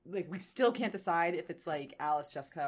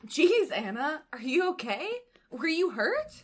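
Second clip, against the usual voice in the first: much higher and louder, worried; alarmed concern; 10 semitones higher, 7 dB louder, slower than usual. Acted. Kate alarmed that Anna was nearly hit. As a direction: rush out the questions in alarm.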